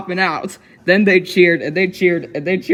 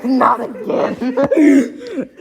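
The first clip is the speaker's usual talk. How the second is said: laughing groan; 7 semitones higher, much slower than usual. Real, not acted. Groaning at child's singing.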